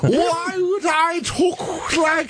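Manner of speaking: high, slow, booming olde outrage; renaissance fair olde speech. Pretend. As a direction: huff like an offended nobleman. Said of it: "I speak in old English".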